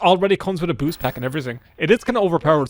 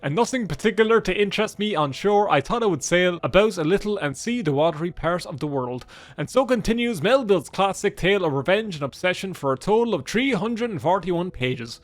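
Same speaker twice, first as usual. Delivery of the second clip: lightly theatrical book reading; lilting literary recital; reading aloud; 2 semitones higher than usual. Acted. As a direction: read the classic out with a flourish.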